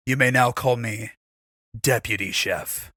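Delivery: lightly played self-important announcement; mock-solemn proclamation. Character proclaims his new title.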